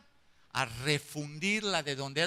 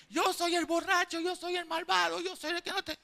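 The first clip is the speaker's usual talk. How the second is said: crying confession; 11 semitones higher than usual. Retold or imitated. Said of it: "empieza a llorar él".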